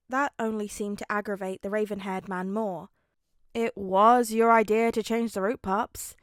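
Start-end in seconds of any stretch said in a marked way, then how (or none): 3.5-6.1 loud, pointed blame; teen needling his dad, loud and smug; loud teasing jab. Acted. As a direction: call him out loudly, then drop on Pops. Son needles his father.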